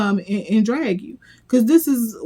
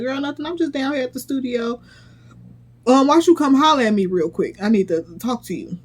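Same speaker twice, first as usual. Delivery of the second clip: cousin's casual call; 4 semitones higher, faster than usual. Retold or imitated. Voicing the cousin on phone.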